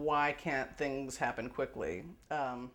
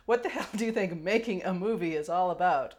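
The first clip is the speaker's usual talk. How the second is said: mock quote; 4 semitones higher, 4 dB louder than usual. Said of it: "quote of the letter".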